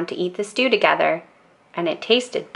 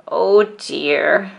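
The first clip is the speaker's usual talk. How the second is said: worried Grandma. A narrator's reading.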